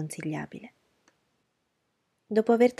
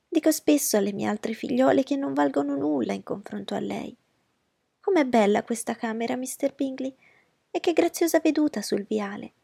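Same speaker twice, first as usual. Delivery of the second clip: higher, louder fussy mother; fussy society mother, higher voice; Mrs Bennet's voice; 6 semitones higher, 4 dB louder than usual. Acted. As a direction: play the anxious mother.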